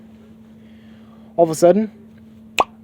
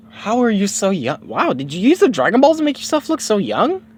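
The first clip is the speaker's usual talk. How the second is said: put-on higher, wondering kid voice; amazed Goku voice; 9 semitones higher than usual. Goku to young Bulma, higher and amazed. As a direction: marvel at how young she looks.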